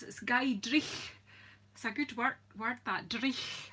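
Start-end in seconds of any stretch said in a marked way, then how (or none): 0.0-1.1 "Dreich" said slowly with a rolled Scots ch at the end; Scots word. Shown as a demonstration. Teaching viewers the Scots word "Dreich", slow Scots ch. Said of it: "it's just like old Scots". 3.1-3.7 "Dreich" with a throaty Scots ch sound; Scots word. Shown as a demonstration. Explaining an old Scots word to viewers, Scots ch. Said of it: "It's an old Scots word".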